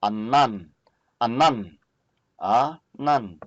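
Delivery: anan said slowly three times, clear falling end each time; teacher modelling the word anan; Hebrew word demo. Shown as a demonstration. Teacher shows class how to say anan. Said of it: "So we have here two syllable nouns".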